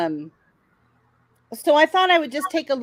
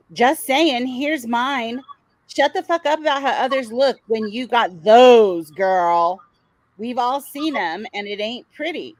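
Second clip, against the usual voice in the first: mock sassy read; 5 dB louder, slower than usual. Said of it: "She's like".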